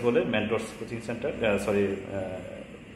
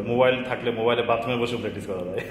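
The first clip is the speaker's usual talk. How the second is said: laughing. Real, not acted. Jokes about practising in bathroom.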